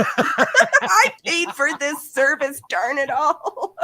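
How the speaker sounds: slow hammed-up old grouch; mock grumpy old customer. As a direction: play a cranky old man demanding service.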